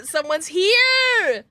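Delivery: high, very slow alarmed cry; startled. Real, not acted. Gamer hears someone in the abbey, startled. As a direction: freeze at a sound.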